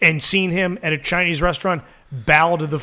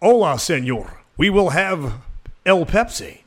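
dad's hammed-up bad Spanish accent; fake Spanish accent. Dad ordering from the waiter, mock Spanish accent. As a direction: put a phoney Spanish accent on plain English. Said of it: "his idea of speaking Spanish is just using an accent".

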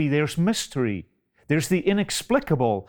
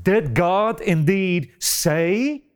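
slow question, lifting at the end of "say"; 3 semitones higher, slower than usual. Retold or imitated. Satan's first words as a question, slowly questioning "say". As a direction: draw out "Did God indeed say" as a doubting question. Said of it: "by way of a question mark".

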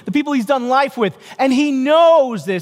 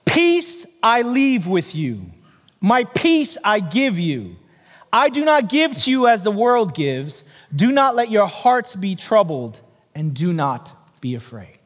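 scripture reading; 3 semitones lower than usual. Acted. Reads scripture verse.

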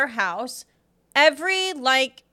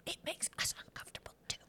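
mock whisper; 21 dB quieter, much faster than usual. Joint mock whisper continues.

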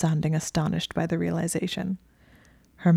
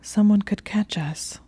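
nervous whisper; 4 semitones higher, 4 dB louder than usual. Acted. Nervous whisper continuing protest.

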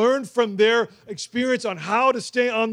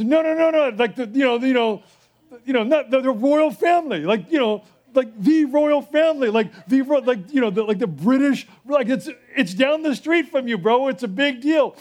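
higher, excited flustered explaining; a touch of a flustered reporter; 3 semitones higher than usual. Retold or imitated.

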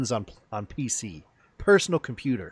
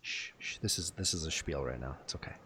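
hushed whisper; 7 semitones lower, 16 dB quieter than usual. Real, not acted. Podcast host hushing his co-host mid-pitch, in a whisper. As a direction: whisper to hush him, breathy and soft.

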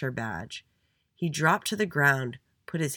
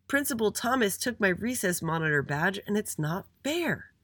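high-pitched whiny complaint; aggrieved; 6 semitones higher than usual. A narrator's reading. Little Andy complains to his parents, aggrieved. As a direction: protest it, dragging out the ending.

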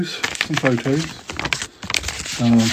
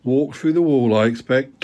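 sarcastic. Acted. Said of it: "Tom said sarcastically".

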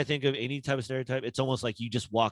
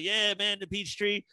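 high, breezy mock coach voice; lightly voiced old coach, pleased with himself; imitating John Wooden; 9 semitones higher, slower than usual. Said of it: "John Wooden's like".

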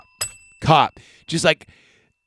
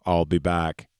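Arnold catchphrase; 5 semitones lower, 4 dB quieter than usual. Retold or imitated. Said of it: "And then he goes".

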